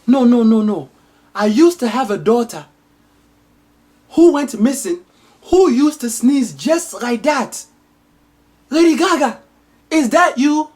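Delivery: high, hammed-up melodramatic queen; queen's voice. Queen recognizing her lost daughter, high and hammed-up. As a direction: wail it like a soap-opera queen. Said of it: "The queen says".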